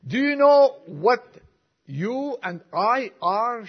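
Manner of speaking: high, loud indignant challenge, slowing at the end; demanding. Retold or imitated. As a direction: fire the question at him, fuming. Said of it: "she demanded".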